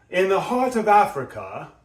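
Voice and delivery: heart lifted high and bright, rising. Shown as a demonstration. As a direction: keep the phrase up high. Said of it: "sort of up here".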